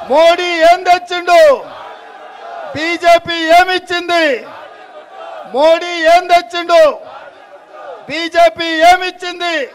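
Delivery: slow, drawn-out rally chant calling for a reply; rally call to crowd. Real, not acted. Leader calls out slowly to the crowd, drawn-out chant. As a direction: stretch each question so the crowd shouts back. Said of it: "మీరు గాడిద గుడ్డు అనాలి".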